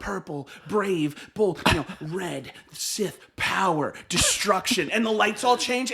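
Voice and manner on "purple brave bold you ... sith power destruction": announcer voice. Retold or imitated. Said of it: "his tone changes as he goes".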